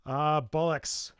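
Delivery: drawn-out Scottish curse; slow it down with a Scottish lilt; Scottish accent. Pretend. Host trying out a Scottish swear word, Scottish accent. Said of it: "That's Scottish".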